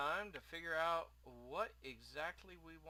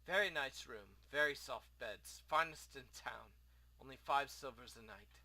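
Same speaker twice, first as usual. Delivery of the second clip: lightly voiced foreign innkeeper; a hint of an exiled host; courteous innkeeper; 6 dB louder than usual. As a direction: speak formally, with a rough try at an accent. Plays the innkeeper.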